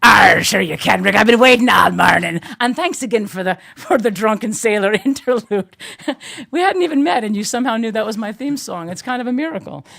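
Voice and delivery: loud, high hammy pirate growl. Pretend. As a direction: play it big like a swaggering pirate. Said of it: "can we get you to talk like a pirate".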